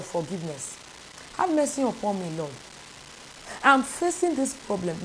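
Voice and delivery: hushed, humble plea to God; model prayer. Shown as a demonstration. Preacher modelling a prayer for listeners, quiet and humble. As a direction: pray it softly, asking for mercy. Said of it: "You say".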